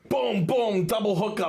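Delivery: high, punchy strike sounds; excited play-by-play. Retold or imitated. Angler telling friends of sudden bites, excited. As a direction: hit each boom like a fish striking.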